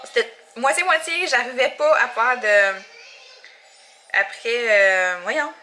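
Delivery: normal talking voice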